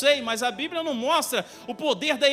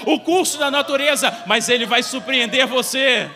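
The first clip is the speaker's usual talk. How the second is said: building to full-force preaching; 5 dB louder than usual. Real, not acted. Preacher promising God will surprise the church, building to a shout. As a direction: build steadily until you are thundering at the crowd.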